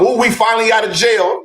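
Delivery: high-pitched gleeful mimicry of someone just freed; Brandon. Reminding listeners how Brandon came in, mock-jubilant. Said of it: "y'all remember Brandon come".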